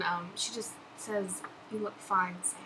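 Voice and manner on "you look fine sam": Rosie's line, first take. Pretend. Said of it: "please say one of Rosie's lines".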